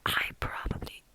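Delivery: a whispered word that slips into a gremlin croak. Real, not acted. Vlogger's British whisper slips, a gremlin voice. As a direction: let it crack into a little gremlin sound. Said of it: "whoa, that was like a gremlin voice".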